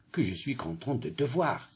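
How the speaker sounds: soft, tender gladness; joyful. Shown as a demonstration. Teacher showing pupils a joyful exclamation, joyful. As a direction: greet a friend you missed, gently. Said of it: "La phrase C exprime la joie".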